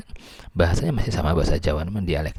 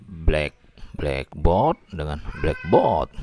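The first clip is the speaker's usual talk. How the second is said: slow careful contrast between black board and blackboard; stress contrast; much slower than usual. Shown as a demonstration. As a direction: say black, then blackboard two ways, stressing BLACK in the compound, slowly. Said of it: "tekanannya di awal kata".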